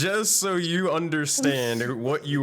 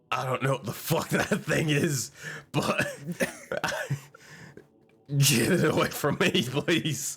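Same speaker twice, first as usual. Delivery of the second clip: phobic panic; 4 semitones higher than usual. Acted. Character recoils from the symbol.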